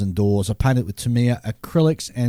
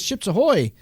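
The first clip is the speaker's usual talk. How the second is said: letter read aloud; 3 semitones higher than usual. Acted. Reads a listener letter aloud.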